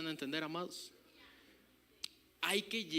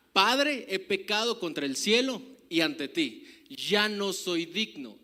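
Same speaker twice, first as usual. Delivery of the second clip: son's loud plea; 7 dB louder, slower than usual. Acted. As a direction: plead loudly as the lost son. Preacher voices repentant son. (súplica fuerte del hijo pródigo)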